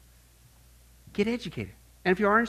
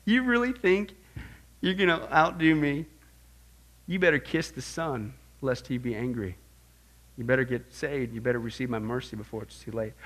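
God speaking; 4 dB quieter than usual. Retold or imitated. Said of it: "and he's laughing".

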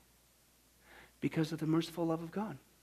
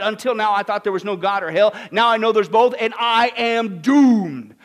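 doomed confession; 6 semitones higher, 12 dB louder than usual. Retold or imitated. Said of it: "He said".

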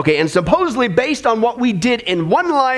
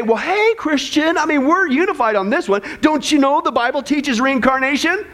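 higher, chummy mock persuader; mocking believer voice; 5 semitones higher than usual. Preacher mimics reincarnation believers coaxing a Christian, higher and mocking. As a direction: play a glib salesman of false doctrine.

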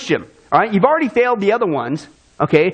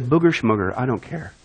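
dismissive shrug; 7 semitones lower, 4 dB quieter than usual. Retold or imitated. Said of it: "and said".

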